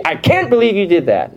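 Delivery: hint of yelling at somebody; mock yelling. Shown as a demonstration. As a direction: scold with disbelief. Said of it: "Oh, he's yelling at him".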